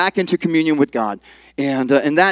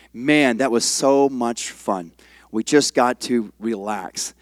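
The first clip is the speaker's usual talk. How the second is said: relieved; 5 semitones lower, 6 dB quieter, slower than usual. Retold or imitated. Retelling teachers' relieved praise.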